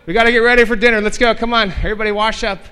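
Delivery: put-on high, loud upbeat rally to the teens; cheery leader call. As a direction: call the group in brightly like nothing happened. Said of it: "is like".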